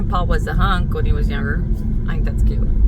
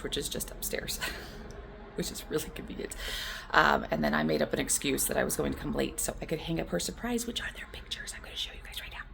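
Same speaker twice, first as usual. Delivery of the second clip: hushed, secretive whisper; 12 dB quieter than usual. Real, not acted. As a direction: whisper the surprise plan. Hiding surprise in church building.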